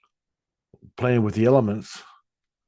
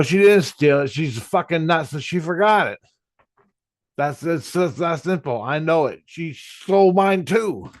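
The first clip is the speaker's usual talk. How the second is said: raised pitch, arguing her case; retold indignant defence; 6 semitones higher than usual. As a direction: protest on her behalf, voice riding higher. Retold defence of girlfriend in argument.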